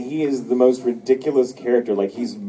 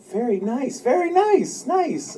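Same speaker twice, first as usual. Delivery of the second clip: mock leering; slower than usual. Quoting the naked character.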